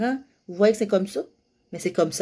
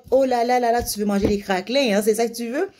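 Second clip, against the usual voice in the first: put-on cooing to a child; 4 semitones higher than usual. Shown as a demonstration. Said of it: "Tu utilises des mots".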